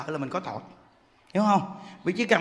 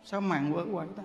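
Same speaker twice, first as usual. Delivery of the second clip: puzzled murmur; 3 semitones lower, 7 dB quieter than usual. Retold or imitated. Woman puzzled at moving curtain.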